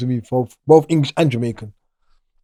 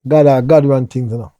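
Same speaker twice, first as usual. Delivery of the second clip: put-on Jamaican accent; 2 semitones higher, 4 dB louder, slower than usual. To the guy he was searching, answering in a Jamaican accent. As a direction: slip into a Jamaican accent, slow on God run things. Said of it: "talking to him Jamaican accent".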